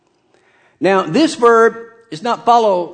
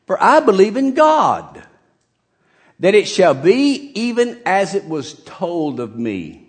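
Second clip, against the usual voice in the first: rallying cry; 4 semitones higher than usual. Acted. Preacher voicing Paul's rallying cry.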